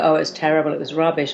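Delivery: mock put yourself down; self-deprecating. Shown as a demonstration. Showing how not to answer praise, a mild self-deprecating mumble. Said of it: "I'd never go".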